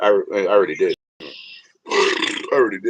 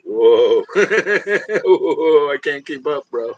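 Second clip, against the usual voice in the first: loud, dazed stoner exclaim; overwhelmed, can't-keep-up burnout; half-laughing spaced-out bro; twitched-out worker; 5 semitones higher, 4 dB louder, slower than usual. Retold or imitated. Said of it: "They might walk around like that all the time".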